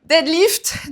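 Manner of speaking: English-accented exercise name; super English accent. Shown as a demonstration. Coach finishing the exercise name, mock English accent. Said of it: "avec mon super accent anglais".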